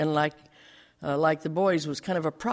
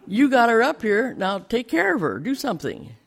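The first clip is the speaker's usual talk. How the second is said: louder, higher, fed-up outburst; indignant retort; 5 semitones higher, 5 dB louder than usual. Retold or imitated. Pastor voicing his angry thought about the man, louder. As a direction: let the anger at him burst out, then fade. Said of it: "that's exactly what I thought".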